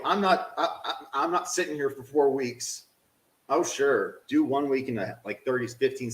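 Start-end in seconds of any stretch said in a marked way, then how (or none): 0.0-2.8 laughing. Real, not acted. Laughs off the frustration.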